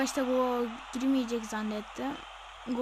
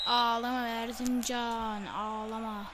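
mocking taunt; slower than usual. Real, not acted. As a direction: draw it out to rub it in. Taunting the losing opponent.

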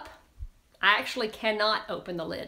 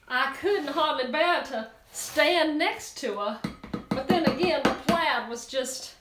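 gossipy Southern lady, lightly voiced; Southern accent. Southern lady gossiping to the girls about Mabel's dress. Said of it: "She could have one of those Southern accents".

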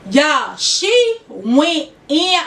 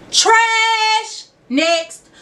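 Trash! barked out higher; mock disgust; 8 semitones higher than usual. Real, not acted. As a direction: scoff at it like garbage. Dismissing six-year relationship.

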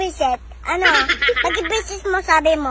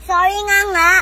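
loud, irritated sorry; cross apology; 7 dB louder than usual. Real, not acted. Child repeating a sorry to a relative, loud and cross. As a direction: insist on the apology crossly and loudly. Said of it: "Eh, ba't ka galit?".

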